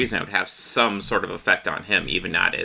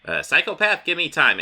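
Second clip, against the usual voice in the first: playful Joker; 8 semitones higher than usual. Retold or imitated. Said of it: "And he's like".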